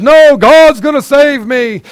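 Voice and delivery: high, loud, slow, stretched-out refusal; stubborn refusal. Acted. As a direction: drag it out like a pious stubborn fool. Stubborn man refusing rescue.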